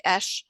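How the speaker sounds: "esh" for the letter H; mispronounced letter H. Retold or imitated. Trainer imitating nurse's letter H, mispronounced as "esh". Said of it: "which she pronounced something like".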